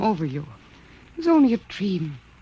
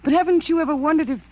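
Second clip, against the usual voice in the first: emotional wailing; 3 semitones higher than usual. Acted. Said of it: "You know I hate this emotional wailing".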